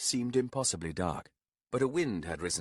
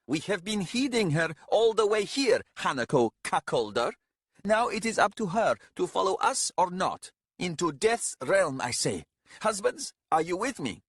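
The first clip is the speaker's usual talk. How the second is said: higher, louder angry defiance; snarling; 10 semitones higher, 5 dB louder than usual. Acted. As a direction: snarl it at the others. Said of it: "One of the husbands snarled".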